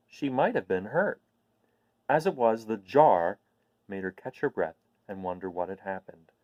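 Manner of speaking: bright animated story reading; storybook narration. Acted. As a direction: paint the scene with wonder, reading to children. Reads the book chapter aloud.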